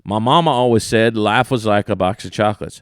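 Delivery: light Southern imitation with "was"; lightly accented movie quote, "was" run into "like"; Forrest Gump quote, was. Shown as a demonstration. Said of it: "listen to this".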